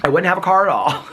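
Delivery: a touch of his mother's voice; imitating mom. Son imitates his mom about the car dying. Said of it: "This is how my mom would talk".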